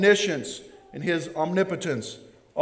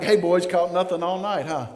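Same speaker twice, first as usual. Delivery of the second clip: sarcastic. Retold or imitated. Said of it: "almost sarcastic".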